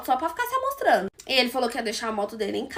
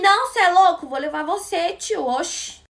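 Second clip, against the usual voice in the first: mock loud protest; 5 semitones higher, 6 dB louder than usual. Guy insists on walking her home.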